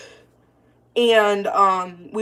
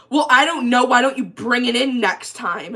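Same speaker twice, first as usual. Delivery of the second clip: louder, higher mimicry of the shop guy; loud imitated retort; 4 semitones higher, 4 dB louder than usual. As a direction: re-enact his loud, rude brush-off. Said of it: "literally how loud I'm being right now".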